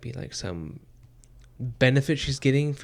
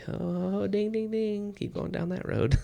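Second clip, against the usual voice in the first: mock cheering; 10 semitones higher, slower than usual. Mock cheering Yumi's inner thoughts.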